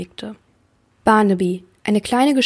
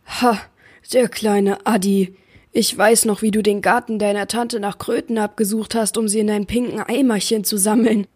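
booming giant. Acted. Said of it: "donnerte der Riese".

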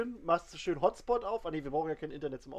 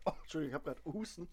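coughing; 2 semitones lower, 8 dB quieter, faster than usual. Real, not acted. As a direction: voice catching after choking. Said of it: "hab mich verschluckt".

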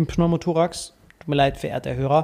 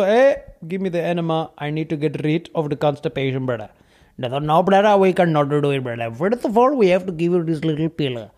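put-on Indian accent. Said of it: "Einfach ein lispelnder Inder".

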